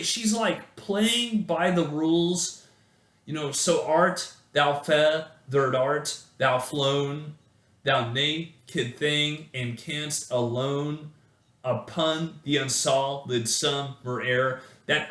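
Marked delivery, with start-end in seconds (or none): 3.5-14.6 slow, measured poetry reading; slow recital of a poem. Acted. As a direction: read the verse slowly and deliberately. Reads the poem aloud.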